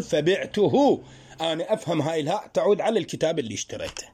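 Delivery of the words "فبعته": فبعته drawn out slowly with a rising end; slow teacher demo; slow example. Shown as a demonstration. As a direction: stretch فبعته for the class. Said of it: "بل تقول".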